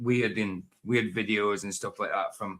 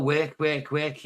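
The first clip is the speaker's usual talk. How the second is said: Scouse "work" with an "eh" vowel; mimicking Scouse vowels in "work"; Scouse accent; 5 semitones higher, much slower than usual. Shown as a demonstration. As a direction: repeat "work" as "wehk", like a Scouser. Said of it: "then you're a Scouser".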